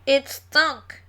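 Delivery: pinched nose, nasal and blocked; holding nose. Acted. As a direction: speak while pinching your nose. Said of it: "as if they had the worst colds".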